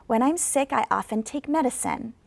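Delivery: "medicine" falls at the end; falling intonation. Shown as a demonstration. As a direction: let "medicine" drop. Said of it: "should reflect that down intonation".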